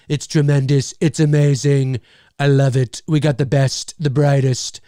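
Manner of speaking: caricatured presidential boasting; Donald Trump. Shown as a demonstration. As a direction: deliver each boast as a separate emphatic burst. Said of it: "I sound like Donald Trump".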